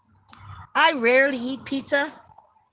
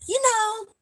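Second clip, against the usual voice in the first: retorting; 5 semitones higher than usual. Retold or imitated. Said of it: "I looked at him and I go".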